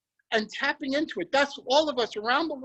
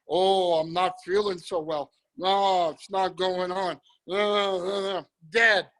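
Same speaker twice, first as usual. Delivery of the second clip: lower, mopey lightly acted moan; low vibration voice; 5 semitones lower, slower than usual. Shown as a demonstration. Host acting out a low-vibration person, mildly mopey and lower. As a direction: sound drained and defeated. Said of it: "low vibration".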